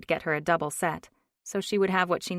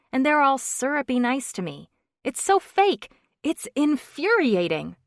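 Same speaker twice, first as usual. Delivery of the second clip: worked-up, higher and louder rant; indignant rant; 5 semitones higher, 7 dB louder than usual. A narrator's reading. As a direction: vent your outrage at them. Ranting about fake boss.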